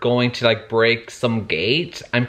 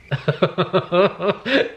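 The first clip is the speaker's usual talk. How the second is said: delighted laugh; 5 semitones higher than usual. Real, not acted. Squeals at couple reveal.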